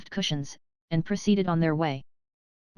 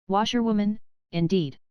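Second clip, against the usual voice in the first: reckless shout; 3 semitones higher than usual. Acted. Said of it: "he shouted recklessly".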